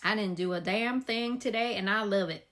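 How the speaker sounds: put-on slipping into a light Southern accent; playful Southern accent. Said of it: "I don't know why I became Southern".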